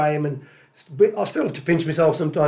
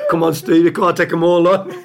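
calling out; 2 semitones higher, 6 dB louder than usual. Retold or imitated. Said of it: "I went".

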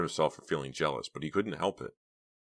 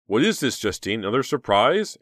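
questioning; 6 semitones higher, 7 dB louder than usual. A narrator's reading. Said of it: "asked Murphy's voice".

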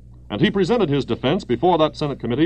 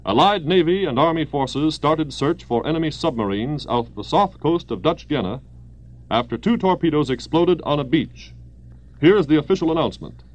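brisk wartime radio bulletin; old newsreel. Acted. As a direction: read it like a 1940s news announcer.

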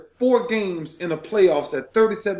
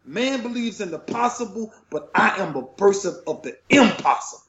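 high, fervent declaration; moved and full of conviction; emotional, impassioned; 5 semitones higher than usual. Real, not acted. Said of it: "I'm getting emotional now".

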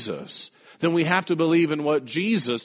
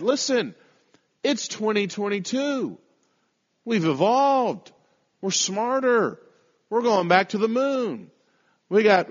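imitating a smug skeptic, higher; mock modern skeptic; 3 semitones higher than usual. Preacher voicing a smug modern skeptic, mocking lightly. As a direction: mimic the people who call hell outdated. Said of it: "That's how a lot of people think".

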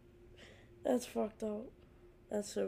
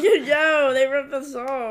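loud, laughing mock complaint; loud laughing mock protest; mock outrage; 6 semitones higher, 13 dB louder, slower than usual. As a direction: yell it half laughing.

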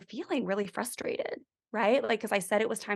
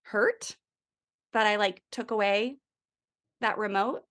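gentle questions. Shown as a demonstration. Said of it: "you can show 'em pictures".

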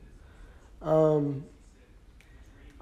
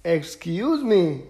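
yawning; slower than usual. Real, not acted. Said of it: "Sorry, I'm yawning".

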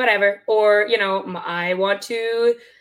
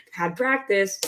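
nervous laugh; slower than usual. Real, not acted. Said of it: "Sorry, I'm not laughing nervously".

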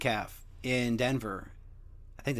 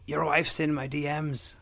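slow, level mock taunt. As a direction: drawl the threat calmly. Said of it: "Conor's a dick".

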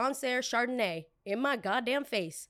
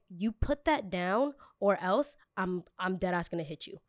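slow menacing threat. Retold or imitated. Threat to the customer.

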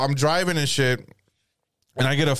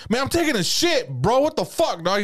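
higher, mock-annoyed outburst; retold irritation; 10 semitones higher than usual. Man in bathroom to intruder, irritated. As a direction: act out an annoyed guy interrupted. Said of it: "He starts getting mad at me".

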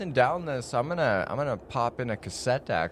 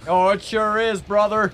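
character voice; 8 semitones higher, 7 dB louder than usual. Acted. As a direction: play a hearty trucker buddy. Player in character reply.

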